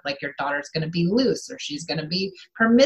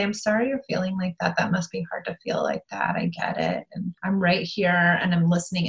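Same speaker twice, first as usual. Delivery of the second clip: gentle empathy; 3 dB quieter than usual. Shown as a demonstration. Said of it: "And just to say".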